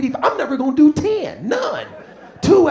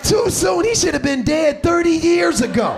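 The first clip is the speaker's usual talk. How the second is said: incredulous outburst; 4 semitones higher than usual. Retold or imitated. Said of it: "I'm like".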